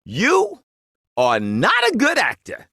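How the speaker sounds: high mock yell, the first word flung up; retold yell across the store. Older lady calls across the store to the actor, in a mock yell. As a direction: imitate her calling out across the aisle. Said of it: "she yells over to me".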